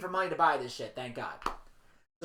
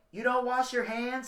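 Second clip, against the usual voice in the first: casual mild disapproval; 4 semitones higher than usual. Shown as a demonstration. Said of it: "Like that delivery".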